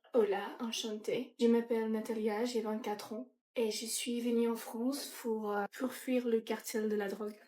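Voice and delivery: slow, soft put-on Latino accent. Natalia introducing herself, light Latino accent. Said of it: "Avec un petit accent latino".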